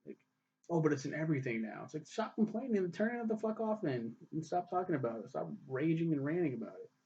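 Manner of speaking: ranting. Real, not acted. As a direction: vent at the people who complain, getting heated. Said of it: "let me stand on my soapbox for a second and rant".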